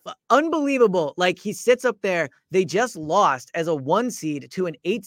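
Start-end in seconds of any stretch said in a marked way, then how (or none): 0.0-1.1 high, loud, laughing disbelief. Real, not acted. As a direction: laugh it out, can't believe it. Incredulous rant about Giannis quote.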